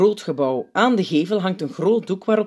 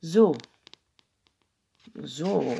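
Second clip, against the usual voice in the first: ponderous, with a long pause between; unhurried, weighing pause; slow; 3 dB quieter than usual. A narrator's reading. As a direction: draw each word out slowly. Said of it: "zegt hij traag".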